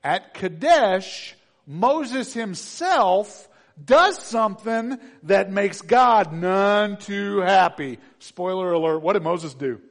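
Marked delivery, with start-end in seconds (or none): 0.0-8.0 loud, slow, weighty preaching; slow dramatic build. Real, not acted. Preacher warning the church, slow loud emphasis. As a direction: lean in hard on Kadesh, slow and loud.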